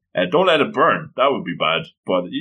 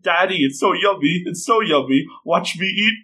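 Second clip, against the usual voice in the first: lightly voiced happy little girl, higher pitch; a hint of an eager small child; little girl to Daddy; 5 semitones higher than usual. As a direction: imitate a delighted kid lightly. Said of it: "little Tsumugi, mouth full of rice".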